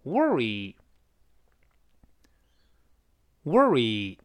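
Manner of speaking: "worry" stretched very slowly, r-colored "wor"; slow repeat of "worry". Shown as a demonstration. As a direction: read "worry" at a crawl for learners. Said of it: "我们再读一下".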